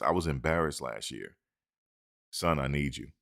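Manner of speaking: understated heartfelt appeal; Coach Prime's plea. Retold or imitated. Coach Prime earnestly telling a recruit he needs him. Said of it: "They need Coach Prime to say this".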